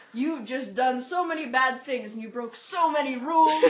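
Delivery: mock-solemn scolding, weight on each offence; Dumbledore. Headmaster figure addresses the returning heroes, lightly imitated scolding. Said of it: "he was the Dumbledore to our, like, Harry".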